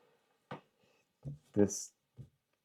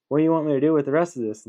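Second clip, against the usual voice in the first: fast, higher barman question; barman asking; 6 semitones higher, 5 dB louder, much faster than usual. Retold or imitated. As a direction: rattle it off, pitched up. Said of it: "was like".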